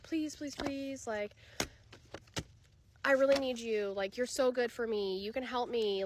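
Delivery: lightly voiced needy ex, pleading; mock begging. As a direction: imitate a clingy partner begging for help. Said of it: "like, begging you".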